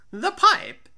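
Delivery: loud, high, blustering tipsy voice; boisterous drunk Fortunato. Acted. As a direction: bluster past the warning, eager for wine. Drunk Fortunato asks for the wine.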